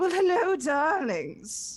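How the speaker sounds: elegant, posh put-on voice, high and grand. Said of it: "she curtsies and says".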